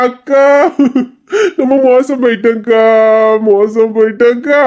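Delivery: slow hammed-up lament with a sob; mock wailing. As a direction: wail melodramatically to the sister. Wailing to sister about grandma. (அக்காவிடம் மிகைப்படுத்திய போலி அழுகை)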